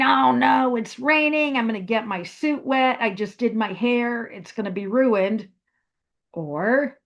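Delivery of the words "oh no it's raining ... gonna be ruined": mock complaining. Teacher imitates someone upset about rain, in a whiny complaining voice. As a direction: fuss like your hair is about to be ruined. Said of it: "you might complain".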